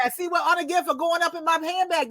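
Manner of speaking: a hint of a grandma telling a child off; grandma's scolding. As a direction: imitate grandma laying down the law. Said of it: "She said".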